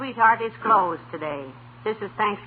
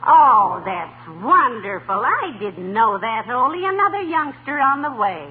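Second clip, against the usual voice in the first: delighted; slower than usual. Acted. Hears of another baby.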